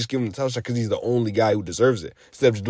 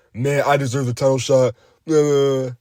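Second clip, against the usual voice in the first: mock his whining demand for respect; put-on mocking voice, ending in nonsense noises; mocking imitation. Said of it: "I'm mocking him".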